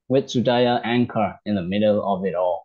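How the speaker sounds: slow, careful reading of the English text for learners; slow read-aloud. Shown as a demonstration. A teacher slowly reading the English story to learners. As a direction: read each word out slowly and clearly.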